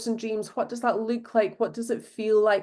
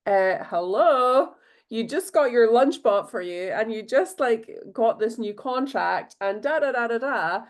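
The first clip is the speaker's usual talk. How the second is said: incredulous "hello"; 2 semitones higher than usual. Retold or imitated. Host teasing a friend who says she can't manifest, pointedly incredulous. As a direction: drag out "hello" like it's obvious.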